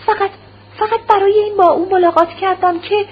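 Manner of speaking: wife, cornered, her voice breaking; broken voice. Acted. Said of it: "با صدای بریده". (صدای بریده و لرزان)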